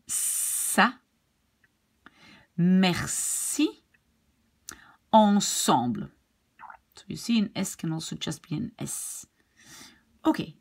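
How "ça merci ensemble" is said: long hissed s in "Ça", "Merci", "Ensemble"; each French word apart, s drawn out; French S sound. Shown as a demonstration. Teacher gives further examples, stressed s sound. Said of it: "Here we have it again".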